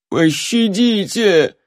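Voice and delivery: cowering hermit begging for mercy; whimpered plea. A narrator's reading. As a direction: whine it with eyes shut tight. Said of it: "проскулил зажмурившийся мужичок".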